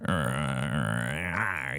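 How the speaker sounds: low growling groans; mock groaning. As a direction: groan like she's losing it. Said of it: "she starts groaning and moaning".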